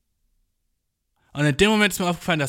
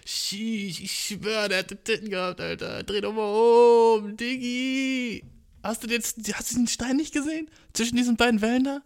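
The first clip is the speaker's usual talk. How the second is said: lightly voiced excited sailor, high; a hint of a gawking pirate; 6 semitones higher than usual. Pirate urging his mate to turn the boat, mildly excited.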